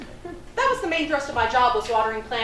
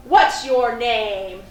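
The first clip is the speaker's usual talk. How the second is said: imitating an angry old man, slow and louder; livid demand; 6 dB louder, much slower than usual. Livid old man confronting the clerk, slow angry demand. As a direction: drag out the demand with menace.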